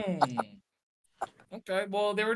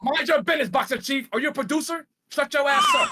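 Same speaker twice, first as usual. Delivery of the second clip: angry yelling; 3 semitones higher than usual. Real, not acted. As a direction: yell it, high and hard. Yelling at the producer.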